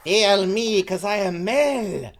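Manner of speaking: grand entrance. Acted. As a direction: announce yourself like a showman. Mel's grand entrance line.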